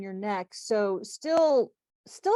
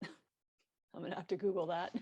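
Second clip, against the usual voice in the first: laughing while talking; 11 dB quieter than usual. Real, not acted. Joking about the word backstrap.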